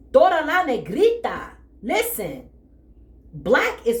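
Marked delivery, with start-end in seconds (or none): 0.1-1.5 Spanish aside. Acted. Playful Spanish aside about her.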